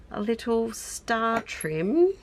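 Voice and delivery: drawn-out British lilt; British accent. Real, not acted. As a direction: let a touch of British slip into it. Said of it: "I turned a little bit British there".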